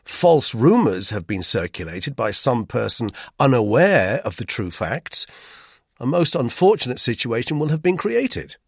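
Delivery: mildly stern, formal warning; severe. A narrator's reading. Narrator warns about false rumours, severely. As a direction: press on severely, lifting the last phrase. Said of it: "I went on severely".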